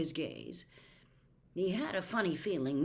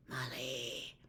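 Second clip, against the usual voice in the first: bleak; 5 semitones lower, 6 dB quieter than usual. A narrator's reading. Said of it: "said Lupin bleakly".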